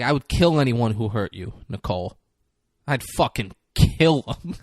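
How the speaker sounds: light accent imitation, protective boyfriend's threat; a rapper's accent. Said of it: "my rapper accent".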